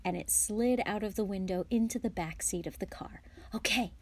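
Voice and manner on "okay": hushed go-ahead, partly whispered. A narrator's reading. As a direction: say it under your breath. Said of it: "George whispered".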